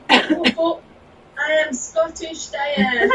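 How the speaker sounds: high, loud, slow announcement; loud self-introduction. Real, not acted. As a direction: announce your name loudly, drawn out and high. Introducing herself to the hosts on request.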